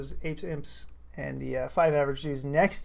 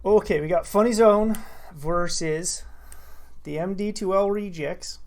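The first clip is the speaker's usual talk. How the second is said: slow Minnesota accent. Shown as a demonstration. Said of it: "in my Minnesota accent".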